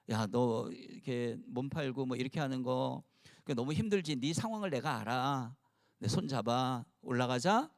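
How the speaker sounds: lightly voiced Jesus, softly consoling a woman who sells her body; tender comfort. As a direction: reach out and lift her up gently.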